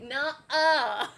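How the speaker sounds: ER turned into a loud, dropped-R "uh"; "Nuh-uh", teacher modelling the Aussie ending. Shown as a demonstration. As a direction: say "Nuh-uh" with ER as an open "uh". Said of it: "When you see an E R, you say".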